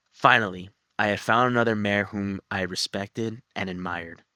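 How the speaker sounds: reading aloud. Acted. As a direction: read the passage aloud, evenly. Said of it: "I'm just gonna read this part".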